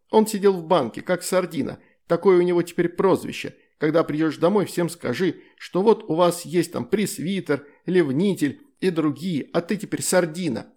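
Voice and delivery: put-on a proud girl explaining her joke; excited little girl. Child Astrid explains the nickname. (звонкий голос увлечённой девочки)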